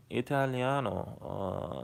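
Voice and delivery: drawn-out mock Italian; Italian accent. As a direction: stretch it out in a put-on Italian accent. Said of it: "I knew how to do Italian".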